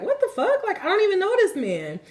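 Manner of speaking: high-pitched, baffled retort; indignant disbelief. Retold or imitated. Storyteller replaying her reaction to a nasty stranger, indignant disbelief.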